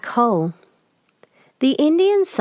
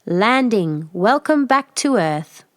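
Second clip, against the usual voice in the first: computer voice; 2 semitones higher, slower than usual. Acted. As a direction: announce it like a ship's computer. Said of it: "the computer announces".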